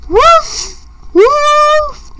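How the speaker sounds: high, rising woof at the moon; howling dog. Pretend. Reading to viewers, the dog barks at the moon in a high howl. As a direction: bark up at the moon like a pup.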